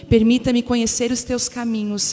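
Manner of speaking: emphatic, projected Bible reading; scripture reading. Acted. Reading Moses' plea to the Lord aloud, emphatic scripture reading. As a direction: proclaim the verses to a congregation, stressing key phrases.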